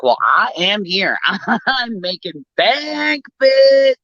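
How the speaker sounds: proud mock taunt on the phone; sassy retort. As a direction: gloat and snap the last word at her. Retold sassy phone argument.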